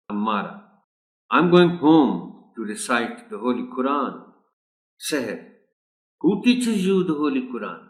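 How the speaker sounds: reading a dialogue, both parts voiced lightly; role play reading. Teacher reads a class dialogue for pupils, lightly acted. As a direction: read the dialogue like a class example.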